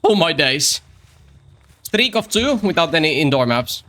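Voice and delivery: retake of the mock British streamer voice; second take. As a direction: redo the British "Oh my days" intro. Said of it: "Take two".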